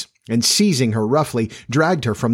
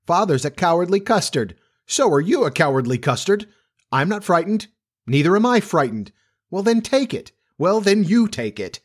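high, sing-song taunting; childish squabble; 8 semitones higher than usual. A narrator's reading. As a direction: bicker back and forth like small children. Father and child trade taunts.

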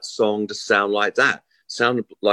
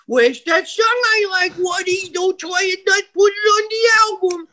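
pushy manager on the phone. Retold or imitated. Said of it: "He'd ring up Waddy and go".

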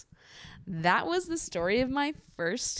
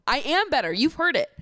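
higher, louder put-on British accent; British accent attempt; 7 semitones higher, 5 dB louder than usual. Shown as a demonstration. Vlogger defending her imitation skills, in an attempted British accent. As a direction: insist in an amateur British accent. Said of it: "No, I can do better".

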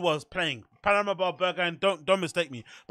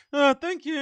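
clenched teeth; 7 semitones higher than usual. Retold or imitated. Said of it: "with their teeth clenched".

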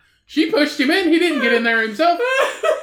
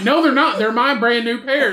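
louder mock-indignant denial; retold bickering; 3 semitones higher, 5 dB louder than usual. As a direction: imitate someone insisting in a squabble. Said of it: "back and forth about these glasses".

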